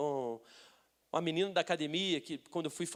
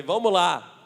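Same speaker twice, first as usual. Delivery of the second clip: loud, rousing cry; rallying call; 12 dB louder, much slower than usual. Retold or imitated. Preacher psyching himself up for the gym, rallying call. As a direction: call out with resolve.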